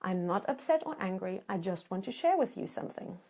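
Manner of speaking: calm them down gently; soft reassurance. Shown as a demonstration. Coach gives the line to soothe a partner, gently and softly. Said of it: "Number two".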